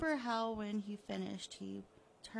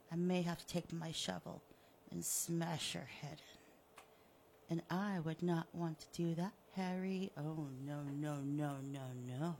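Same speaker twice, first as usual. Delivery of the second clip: menacing villain; 3 semitones lower than usual. Acted. Killer threatening the buried Harry, smug and menacing. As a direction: purr the threat, then tut him lower.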